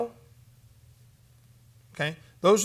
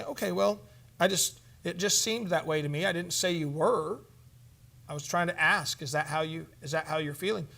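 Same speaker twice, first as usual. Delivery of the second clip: gentle counselor. Shown as a demonstration.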